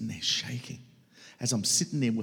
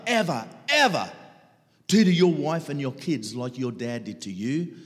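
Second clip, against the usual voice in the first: condemning inner voice; 10 semitones higher, 11 dB louder than usual. Retold or imitated. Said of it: "condemning voice".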